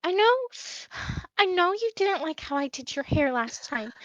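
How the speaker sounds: high, nervous, eager maid voice pleading to try again; a timid maid begging for another chance; anxious maid. Acted.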